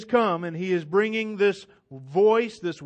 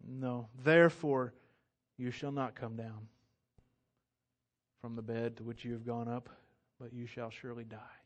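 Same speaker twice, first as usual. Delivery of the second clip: lower, much softer solemn sentence of death; hushed verdict; 9 semitones lower, 9 dB quieter than usual. Acted. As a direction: say it softly and gravely, almost to yourself. Elijah's final verdict, hushed.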